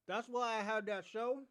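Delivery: talking around candy; words round a piece of candy; mouth full. Real, not acted. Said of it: "Sorry, I got candy in my mouth".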